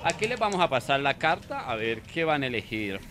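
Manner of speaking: lightly voiced polite waiter; soft posh waiter. Waiter seating guests in a fancy restaurant, softly. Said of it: "restaurante muy fino".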